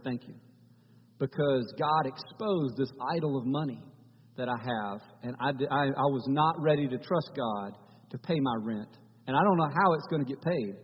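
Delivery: soft, moved, holding back a tear; quiet teary gratitude. Retold or imitated. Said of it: "he had a little tear come to his eye".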